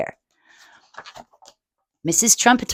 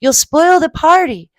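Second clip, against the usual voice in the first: warning mother; 7 semitones higher, 4 dB louder than usual. Acted. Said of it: "warned Missus Trumpeter".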